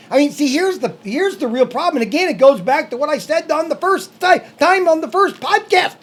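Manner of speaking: high, sing-song sketch-comedy voice; Mister Wiggins impression. Co-host rants about YouTube's creators to the other hosts, comic impression. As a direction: rant in a high, bouncing comic character voice. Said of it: "That's just Mister Wiggins on the Carol Burnett Show".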